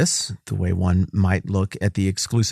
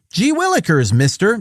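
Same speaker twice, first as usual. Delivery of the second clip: put-on much higher, eager golly-gee kid voice; wholesome 1950s kid; 9 semitones higher, 3 dB louder than usual. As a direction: say it like a fresh-faced kid. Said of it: "that paraphrase is mine".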